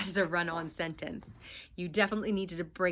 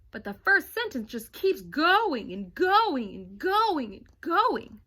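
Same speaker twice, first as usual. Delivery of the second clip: slow, louder, dragging each going; stretched-out exasperation; 6 semitones higher, 6 dB louder than usual. Acted. Kevin telling his sister, slow and dragging. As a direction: drag out every going like it never ends.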